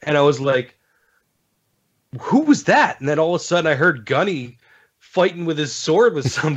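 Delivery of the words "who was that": surprised. Retold or imitated. Startled by voice in game chat.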